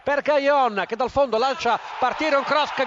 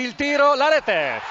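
excited goal call; 3 semitones higher, 4 dB louder than usual. Real, not acted. Goal call in live commentary.

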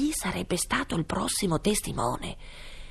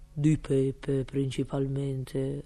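cook voice; 4 semitones lower, much slower than usual. A narrator's reading. Cook's answer in court.

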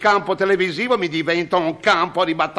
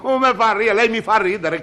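higher laughing retake; 4 semitones higher than usual. Acted. Cameraman mocks the director.

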